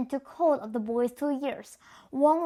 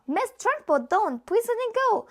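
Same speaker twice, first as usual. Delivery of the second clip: cried out; 9 semitones higher than usual. A narrator's reading. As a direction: call out desperately from the back. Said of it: "Miss Honey cried out".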